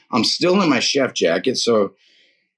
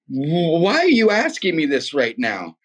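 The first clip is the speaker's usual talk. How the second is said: higher, imitating a near-tearful woman; almost crying; 4 semitones higher than usual. Woman answers a stranger's question about God, almost crying. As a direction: stammer into it, a touch tearful. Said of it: "called out, almost crying".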